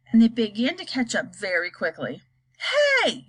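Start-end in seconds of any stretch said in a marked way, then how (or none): 3.0-3.3 yelled. Acted. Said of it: "yelled Schouler".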